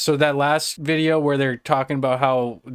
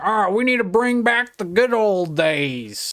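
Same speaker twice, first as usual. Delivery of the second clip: mocking racist rant; 8 semitones higher than usual. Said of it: "their rants are always".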